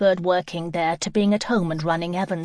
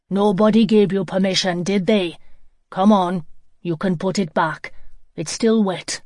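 stern scolding; 4 dB louder than usual. Acted. Angry man scolds the girl.

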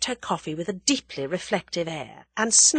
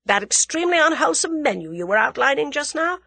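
higher-pitched, animated female character; young woman character, eager; 11 semitones higher, 5 dB louder than usual. Acted. Young woman quizzing her companion about the menu, eager. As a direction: lift it into an eager, incredulous questioning.

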